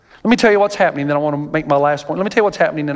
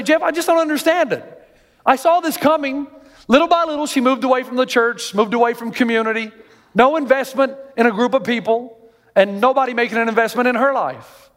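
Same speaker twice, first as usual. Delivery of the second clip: high-pitched, mildly pained retelling; distraught father; 6 semitones higher than usual. Retold or imitated. Imitated father confiding in preacher about daughter, mildly distraught. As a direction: lightly voice a bewildered father. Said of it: "he's distraught right now".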